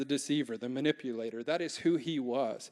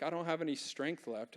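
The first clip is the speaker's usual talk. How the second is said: much softer, a worn-out murmur; weary; 8 dB quieter than usual. Retold or imitated. Tired believer voiced by pastor, soft and drained. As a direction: sound like you have nothing left. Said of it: "you're like".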